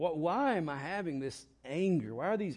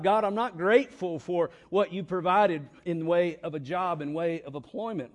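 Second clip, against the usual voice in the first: mock grumbling; 3 semitones higher, 6 dB louder than usual. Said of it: "It's murmuring. It's saying to God".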